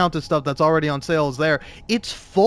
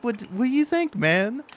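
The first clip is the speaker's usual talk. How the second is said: higher-pitched retold exasperation; exasperated; 7 semitones higher than usual. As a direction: let weary exasperation push the pitch up.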